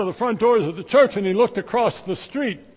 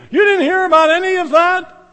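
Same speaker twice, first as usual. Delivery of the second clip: incredulous disbelief; 10 semitones higher, 9 dB louder than usual. Acted. Disciples incredulous at stranger.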